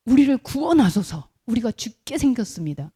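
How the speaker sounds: loud, desperate cry for rescue; mock-panicked disciples begging to be saved; panicked plea. Disciples waking Jesus in panic.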